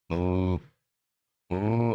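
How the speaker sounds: low, level imitation moo; pure cow moo. Speaker drops human thoughts to be a cow, low moo. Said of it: "I'm now not gonna be a human".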